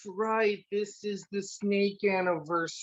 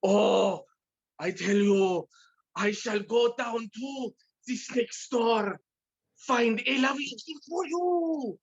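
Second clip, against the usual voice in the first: hammed-up German accent, apologetic husband; 3 semitones higher than usual. Husband apologizes to his wife, hammed-up German accent. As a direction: play a sorry husband with a thick German accent. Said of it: "a German accent or a culturally German".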